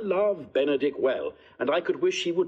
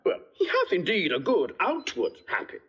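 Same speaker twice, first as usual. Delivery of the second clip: amused, chuckling delivery; teasing agreement with a laugh. Acted. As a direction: let the laugh leak into the words. Joining the teasing, laugh heard.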